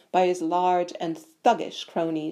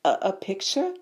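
blank. A narrator's reading. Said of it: "Harry repeated blankly".

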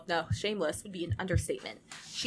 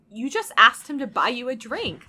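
indignant, louder accusation; fuming; 3 semitones higher, 7 dB louder than usual. Acted. Lumine accusing Inessa over the drink, fuming. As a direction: throw it at her, annoyed and louder. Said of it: "Lumine fumes".

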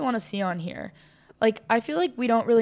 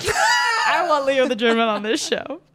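loud, slow, higher yell; shouting; 5 semitones higher, 4 dB louder than usual. Pretend. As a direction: belt it out like a fan.

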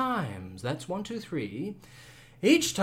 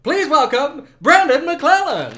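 game show host; 3 dB louder than usual. Acted. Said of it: "I'm your host".

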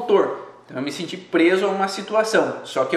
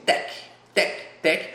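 jaw clicking noise; 4 dB quieter than usual. Shown as a demonstration. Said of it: "eu ouço sim".

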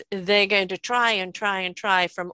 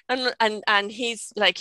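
ordinary delivery

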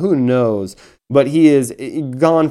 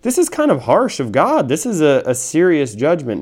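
much higher, mock objection to God; doubting listener; 4 semitones higher than usual. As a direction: voice the listener who finds God harsh. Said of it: "And you might be saying".

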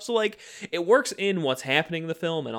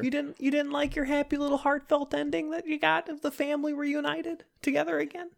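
mocking sweet voice; 14 semitones higher, 4 dB quieter than usual. Teasing about the sweet ending.

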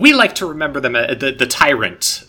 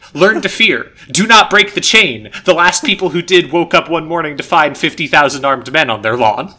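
raised, preachy tyrant reading; sermon voice; 5 semitones higher, 5 dB louder than usual. Acted. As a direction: boom it out like a sermon. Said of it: "Oh, suddenly I hear a thousand sermons in the back of my head".

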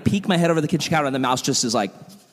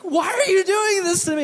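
much higher squeaky mouse voice, pleading; mouse's voice. Retold or imitated. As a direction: voice the mouse begging in a tiny high voice. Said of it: "he's like".

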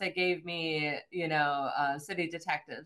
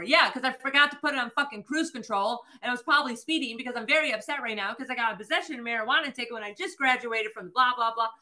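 higher-pitched, rushed tearful babble; upset rambling; 5 semitones higher, faster than usual. Retold or imitated. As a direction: ramble it out, mock-distraught. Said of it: "I'm just rambling off, bawling".

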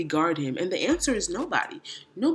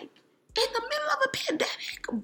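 incredulous whisper. Retold or imitated. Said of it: "I was like".

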